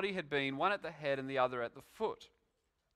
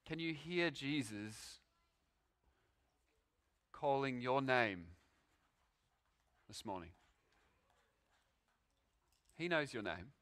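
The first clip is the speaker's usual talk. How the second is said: soft appeal; 2 semitones lower, 5 dB quieter than usual. Real, not acted. Closing appeal to listeners.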